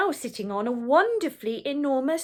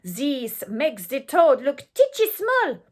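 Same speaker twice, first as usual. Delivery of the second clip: louder, eager mob; shouting mob; 2 semitones higher, 6 dB louder than usual. Acted. The French mob plans the feast, loud and eager. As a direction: gloat over the feast. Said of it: "The French were shouting".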